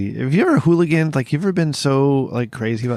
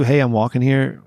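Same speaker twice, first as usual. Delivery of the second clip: put-on New York accent. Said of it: "like, my New York".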